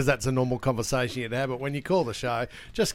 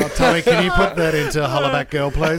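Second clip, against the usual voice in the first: eager request; 3 dB louder than usual. Real, not acted.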